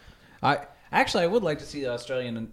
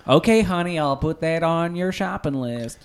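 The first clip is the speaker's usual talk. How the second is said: put-on loud, higher Southern hick woman accent; 5 semitones higher, 6 dB louder than usual. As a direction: imitate a folksy Southern lady assistant. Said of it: "responds to me in a hick woman accent".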